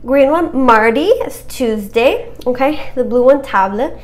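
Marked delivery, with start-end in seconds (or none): 3.4-4.0 "table" the French way, like TAH-bluh; French-accented "table" with an open "ah". Shown as a demonstration. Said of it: "just say it with a French accent".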